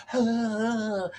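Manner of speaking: a breathy exaggerated "Huh" sound before a word. Shown as a demonstration. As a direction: push out a big "Huh". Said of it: "It takes so much more effort to go".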